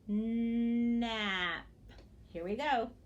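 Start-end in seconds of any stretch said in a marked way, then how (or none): 0.1-1.6 "Nap" stretched, with a separate final p; very slow. Shown as a demonstration. Teacher models slow speech for children, "Nap" drawn out. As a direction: hold the n and vowel of "Nap", then pop the p. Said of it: "I just slow my mouth down".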